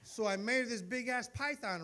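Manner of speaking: slow, savoring every word; slow drawn-out telling. Shown as a demonstration. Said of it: "I can say it any way I want".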